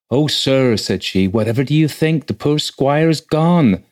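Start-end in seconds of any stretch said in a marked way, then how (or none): 0.1-0.8 higher-pitched flustered housekeeper; agitated. A narrator's reading. Housekeeper breaking bad news to the rector, agitated. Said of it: "entered his housekeeper in evident agitation". 1.3-3.8 high, flustered housekeeper voice; louder and higher, dragging out the dreadful news; agitated. A narrator's reading. Housekeeper telling the rector of a death, agitated. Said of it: "entered his housekeeper in evident agitation".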